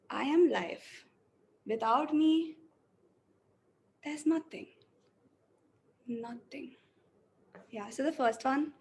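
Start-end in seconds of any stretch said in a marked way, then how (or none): 0.1-6.8 depressed, hopeless reading. Shown as a demonstration. Acting student reads the first version, depressed and flat. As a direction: let the lines sink with no hope. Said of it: "let me go with the first one".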